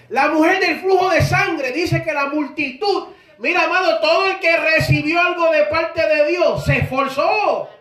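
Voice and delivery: driving, emphatic sermon delivery; fervent preacher pressing the point home; impassioned preaching. Acted. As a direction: preach it with force, landing hard on key phrases. Preaches with rising force.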